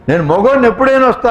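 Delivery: fast, cocky retort from a proud husband; boastful husband. Retold or imitated. Husband answers his angry wife with a fast cocky boast. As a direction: toss it off like a man who owes no excuses. Husband asserts male right.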